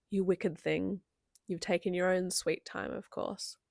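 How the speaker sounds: measured reading of a final scene; audiobook-like delivery, softening at the end; story narration. A narrator's reading. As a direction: read the closing passage aloud with care. Reads the final passage aloud.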